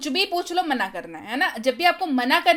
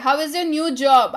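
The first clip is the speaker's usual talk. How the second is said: slow and clear, word by word; slow model sentence; 4 dB louder, much slower than usual. Shown as a demonstration. Teacher reads the English line slowly for Hindi students. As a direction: spell it out slowly for learners. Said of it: "teacher models the English sentence".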